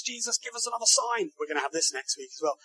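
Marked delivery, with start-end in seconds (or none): 0.0-1.3 mock demanding crowd. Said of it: "they say to Jesus".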